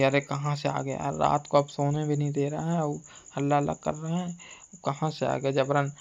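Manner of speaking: low, soft grumble to oneself; grumbling inwardly. Retold or imitated. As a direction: imitate hosts' unspoken complaint. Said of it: "मन में यही बोल रहे हैं". (मन ही मन धीमी शिकायत)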